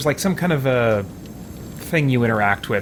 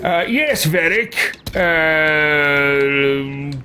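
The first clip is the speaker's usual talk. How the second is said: lordly and condescending, pitched up; haughty commander; 2 semitones higher, much slower than usual. Acted. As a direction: summon an underling you look down on. Playing a haughty game character.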